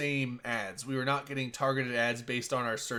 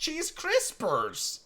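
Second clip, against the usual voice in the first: put-on high, very drawn-out Hispanic accent; forced Hispanic accent; 12 semitones higher, much slower than usual. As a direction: mimic the actress laying the Hispanic accent on thick. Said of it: "she said it like that".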